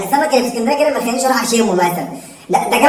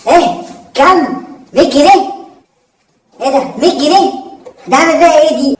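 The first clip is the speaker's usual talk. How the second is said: shocked; 3 semitones higher than usual. Acted. Son shocked at small sum.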